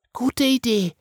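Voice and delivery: put-on high child voice; Marie agreeing. A narrator's reading. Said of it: "sagte Marie".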